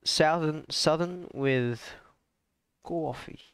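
Southern accent, stretched slowly. Shown as a demonstration. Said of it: "I mixed".

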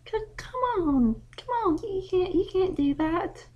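high, stammering "come on, you can't"; panicked young filly. Acted. Daughter pleads with her dad against a spanking, panicked and stammering. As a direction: beg him to back down in a rush.

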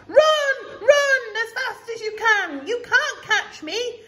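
high, loud, teasing taunt; squeaky cheeky runaway; gingerbread man voice. Acted. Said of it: "He called to the horse".

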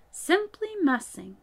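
slow, dreamy musing; dreamily. A narrator's reading. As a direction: drift off lost in the thought. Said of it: "he went on dreamily".

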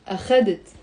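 أخذت stressed on the middle syllable خَ; stress on second syllable. Shown as a demonstration. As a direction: say أخذت as a-KHA-det. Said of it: "The stress is on the خ".

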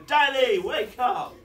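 put-on high, loud child's wake-up call; imitating his children. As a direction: yell it like kids rousing a parent. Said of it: "my children would nudge me and go".

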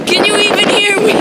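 loud high call over the gusts; shouting over wind. Real, not acted. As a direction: yell so she hears you through wind.

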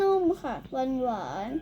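talking through a full mouthful; slow words around a big bite; cheeks stuffed full. Real, not acted. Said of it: "เต็มปากเต็มคำ". (พูดทั้งที่อาหารเต็มปาก)

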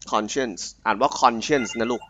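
คำว่า conscience อ่านว่า คอน-เชินซ์ ชัดๆ; สอนออกเสียง conscience ให้ถูก; pronunciation demo. Shown as a demonstration. (สาธิตการออกเสียง)

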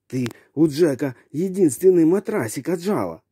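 high-pitched playful scolding of a pet; mock scolding. Real, not acted. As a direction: tease the dog like a scandalized owner. Scolding the dog, mock outrage.

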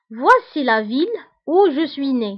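slow, measured French model sentence; spaced-out teacher's reading; slow example reading. Shown as a demonstration. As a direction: read it out slowly for learners.

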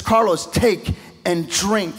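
slow, calm, almost sung invitation; gentle voice of the Lord. Retold or imitated. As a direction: offer it tenderly, drawing the words out. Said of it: "He says".

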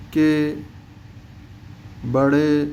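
কে, বড়ে with Bengali e, never ee; e sound. Shown as a demonstration. Teacher giving examples of ya majhul, e sound. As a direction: end কে and বড়ে on a held 'ay'. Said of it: "একারের আওয়াজটা আসবে বাংলাতে".

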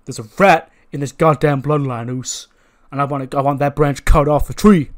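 forceful, accusing promo; Jey Uso. Acted. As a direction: come down loud on the accusation. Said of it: "He's like".

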